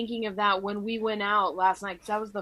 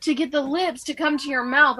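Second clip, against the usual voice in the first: insistent explaining; 5 semitones higher, 3 dB louder than usual. Retold or imitated. Voicing a friend explaining the game.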